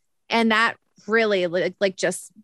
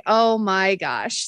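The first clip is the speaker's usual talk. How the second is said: exasperated; 2 semitones lower, much slower than usual. Retold or imitated. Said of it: "So I was like".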